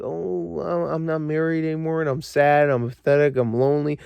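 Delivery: soft mopey whine; mock mopey character. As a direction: parody a self-pitying hero, quietly. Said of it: "every character have to be like".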